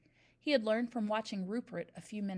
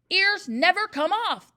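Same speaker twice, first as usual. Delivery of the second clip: much louder, slow, scoffing shout; 9 semitones higher, 14 dB louder, slower than usual. A narrator's reading. Trunchbull bellows at Miss Honey, scoffing. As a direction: bellow it with contempt. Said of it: "the Trunchbull shouted".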